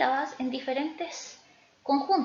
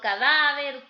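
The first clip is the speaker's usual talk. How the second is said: "cadáver" with a louder middle "dá"; stress on penultimate syllable; 5 dB louder, slower than usual. Shown as a demonstration. Teacher listing examples of grave words, penultimate-syllable stress. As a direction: hit the "dá" in "cadáver". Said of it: "se van a tildar en la penúltima sílaba".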